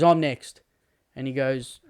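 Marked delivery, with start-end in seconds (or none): 0.0-0.6 eager nun. Acted. Nun voiced rushing to heaven.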